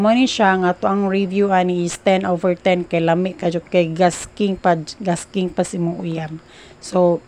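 chewing while speaking; muffled food-filled speech; mouth full. Real, not acted. Seen 2: Puts food in mouth by hand, then speaks with cheeks full, chewing.

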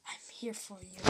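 low, very soft pretend murmur; mock cat voice. Voices the cat's thought.

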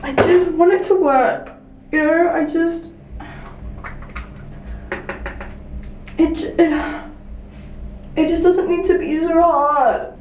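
on the verge of tears, pleading with the makeup; real tearful frustration; near tears. Real, not acted. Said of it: "I'm actually gonna cry".

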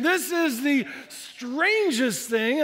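amazed. Retold or imitated.

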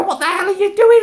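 high, loud demand; outraged. Retold or imitated. Confronting mum as she laughs, outraged. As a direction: yell it at her in disbelief.

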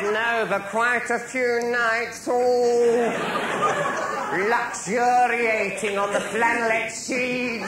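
high and slow, drawn out with a laugh; slow suggestive camp purr; camp innuendo. Retold or imitated. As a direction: savour each word of the double meaning.

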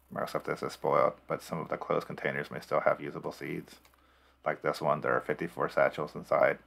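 robot voice. Pretend. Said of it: "I forgot my, uh, robot voice".

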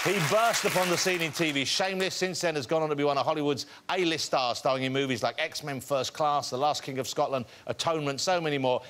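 rousing guest introduction, lifting at the name; show announcer. Acted. Host bringing out the star guest, announcer voice. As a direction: welcome the crowd and build to a big reveal.

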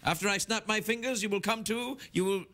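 hammed-up stage hypnotist; mock hypnotist. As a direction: lull them with deliberate pauses between phrases. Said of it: "sober you up using hypnotic power".

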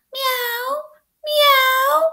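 high, rising meow; cat meow. A narrator's reading. Teacher reading to kids, high cat meow. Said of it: "maulló el gato".

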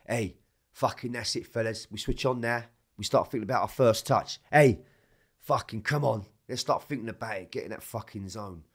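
loud fired-up rallying call to the lads; captain geeing up his teammates, loud; rallying the team. Retold or imitated. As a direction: pump the team up before kickoff, shouting. Retold captain's dressing-room rally.

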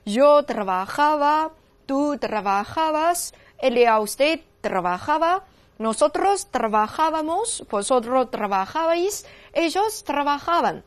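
slow, deliberate Spanish conjugation drill; model recitation. Shown as a demonstration. Teacher leading students through the conjugation, slow model recitation. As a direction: recite each form slowly, pronoun then verb. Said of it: "那刚才带着大家走了一圈哈".

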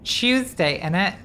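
high-pitched mock British accent; bad British accent. Shown as a demonstration. Streamer showing off a bad British accent. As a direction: put on a hammy British accent. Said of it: "am I best British accent".

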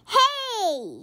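high, loud protest; yell. A narrator's reading. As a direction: call out hey. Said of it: "yelled the other players".

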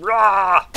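growling battle yell; battle cry. Real, not acted. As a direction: roar as you leap on it. Launching attack on mob.

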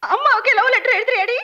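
half-sobbing reproach to the daughter; tearful scolding. Acted. Mother scolding her daughter over the letter, crying.

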